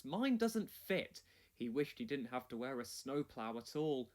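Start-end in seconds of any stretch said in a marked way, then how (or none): 0.0-1.2 sighed. Acted. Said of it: "sighed Thomas".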